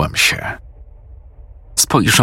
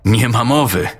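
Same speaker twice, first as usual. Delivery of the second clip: put-on disbelieving girl; 8 semitones higher than usual. Amy disbelieving.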